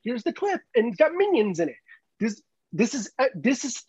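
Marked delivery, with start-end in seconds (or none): 0.0-1.8 lightly voiced, higher-pitched talk show guest; a hint of a movie star plugging his film; Chris Pratt. Movie star to talk show host, lightly acted plug. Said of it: "he's gonna be like".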